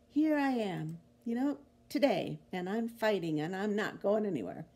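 toned-down echo of the preacher's rallying cry; mild defiant attitude. Retold or imitated. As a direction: restate it firmly, with a touch of defiance. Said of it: "I love that attitude".

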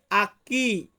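Portuguese আকি, clear and careful; Portuguese word. Shown as a demonstration. Teacher models আকি for Bengali learners, careful Portuguese. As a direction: say আকি as Portuguese aqui, ah-KEE. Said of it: "Portuguese ভাষাতে আপনাকে বলতে হবে".

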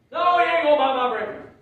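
put-on old man refuses the breakfast loudly; mock stubborn refusal. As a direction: push it back hard.

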